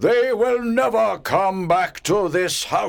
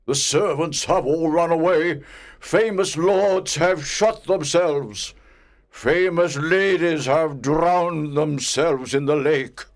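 angry ghost; 10 semitones higher, 5 dB louder than usual. A narrator's reading. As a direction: rant like an outraged old spirit. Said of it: "He was very angry".

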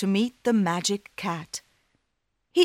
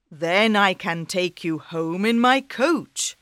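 kind king; 3 dB louder than usual. Acted. King invites Daniel.

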